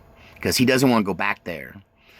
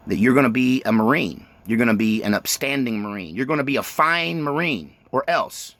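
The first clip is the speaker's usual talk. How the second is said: stern Marine father. Retold or imitated. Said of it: "he goes".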